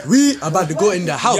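a hint of mock African accent. Telling friends the night's plans, light African accent. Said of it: "Put your African voice".

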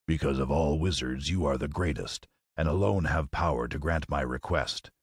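low lion voice, respectful; lightly voiced pleading Lion. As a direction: appeal to the wizard as a humble beast. Lion answers wizard.

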